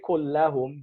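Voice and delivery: Kullahum with a vowel, as the rejected form; wrong form Kullahum. Shown as a demonstration. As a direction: show Kullahum as the wrong ending. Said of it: "He didn't say".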